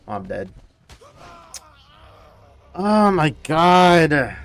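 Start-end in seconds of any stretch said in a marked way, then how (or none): 2.7-4.4 drawn-out oh my god. Real, not acted. Reacting to damage.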